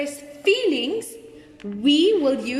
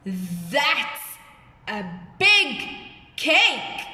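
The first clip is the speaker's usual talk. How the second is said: slow, spaced-out amazed exclamation; much slower than usual. Shown as a demonstration. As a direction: stretch each word in demonstrated amazement. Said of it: "I'm showing that I'm amazed".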